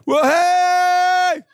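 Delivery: very loud, high startled warning; hammed-up shock; alarmed car. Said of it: "my car's like".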